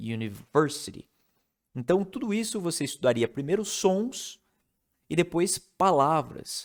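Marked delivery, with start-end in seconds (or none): 0.0-1.1 "university" with extra stress on "ver". Teaching English word stress, stress on ver in university. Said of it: "E esse versity é mais forte".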